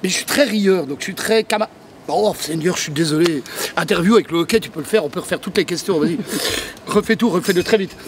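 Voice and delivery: hiccuping while talking; with hiccups. Real, not acted. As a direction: talk through the hiccups. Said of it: "Je vais le faire avec le hoquet".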